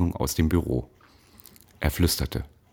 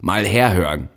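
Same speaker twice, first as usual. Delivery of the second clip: loud, higher call for attention; 4 semitones higher, 5 dB louder than usual. Acted. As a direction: summon the whole hall. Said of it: "rief in die ... Stille".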